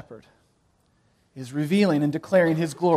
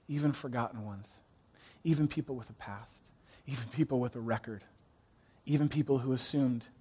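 soft, low, intimate preaching; softly reassuring sermon voice; tender hush; 7 semitones lower, 10 dB quieter than usual. Acted. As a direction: draw the listeners in gently. Tender quiet close of the sermon point.

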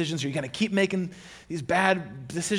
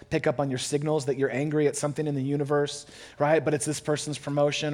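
ordinary talk, nothing marked

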